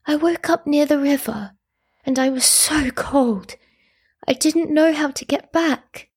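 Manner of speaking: high, small, partly whispered; weakened voice. A narrator's reading. Revived boy explains to mother how he got lost, weak high voice. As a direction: speak feebly as an ailing little boy. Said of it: "said Art in his weakened voice".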